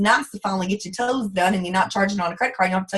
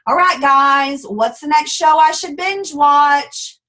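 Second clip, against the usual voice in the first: louder, higher, slow mock post; mocking binge watcher; 3 semitones higher, 5 dB louder, slower than usual. Mocking a Plexus seller's Facebook post, loud and high. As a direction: parody the lazy seller online. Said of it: "I scroll Facebook and I see".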